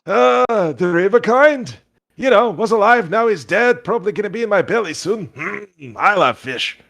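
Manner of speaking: put-on high, folksy old-timer voice; cheerful old fisherman chatting about dinner; squeaky old boggart talking about fish. GM voicing the boggart.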